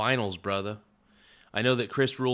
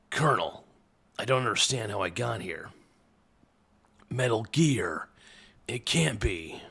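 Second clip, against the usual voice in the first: Solid Snake voice. Retold or imitated. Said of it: "I can kinda do the Solid Snake voice".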